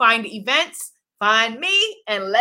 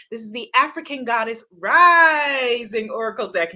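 dramatic, announcer-style title read; grand announcement; 4 dB louder than usual. Shown as a demonstration. Host unveiling her new oracle deck to viewers, grand announcer read. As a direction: proclaim the deck name like a big reveal. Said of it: "you have to say it like that".

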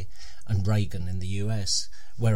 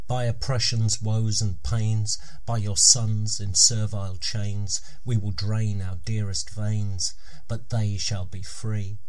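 slow recital in a put-on Scottish accent; measured verse, lightly attempted Scottish accent. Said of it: "please excuse the accent".

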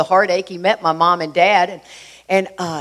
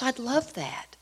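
soft, high-pitched delighted reply; glad acceptance; 7 semitones higher, 9 dB quieter, slower than usual. Retold or imitated. Stepmom accepting a visit over the phone, softly glad. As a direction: answer softly, lifting the pitch.

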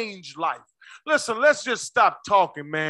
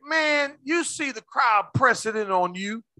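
mock incredulous disciple, building louder to the question; disrespectful disciples; 4 semitones higher, 4 dB louder, slower than usual. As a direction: question him as if he's being ridiculous. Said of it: "See how they disrespect Jesus?".

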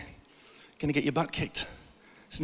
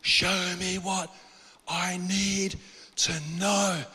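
slow drawn-out plea; 4 dB quieter, much slower than usual. Retold or imitated.

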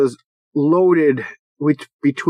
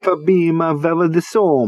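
hammed-up Italian accent. Shown as a demonstration. Podcaster shows how to say the spider name, mock Italian accent. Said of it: "you should use an Italian accent".

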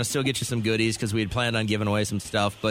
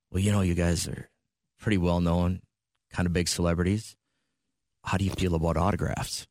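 lightly voiced dentist; 5 semitones lower than usual. Dentist asking for autograph.

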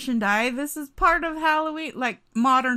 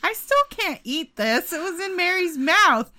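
higher-pitched, mildly grossed-out protest; acted disgust; 4 semitones higher than usual. Imagined friend refusing the dingo's donut, mock disgust. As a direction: complain with playful disgust, breaking into laughter. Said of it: "And they'll be like".

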